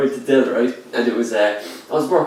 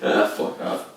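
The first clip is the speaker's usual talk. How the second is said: whispered brush-off; whispered mock retort; dismissive whisper; 4 dB quieter, slower than usual. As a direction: breathe out a fed-up dismissal. Imagined dismissive reply.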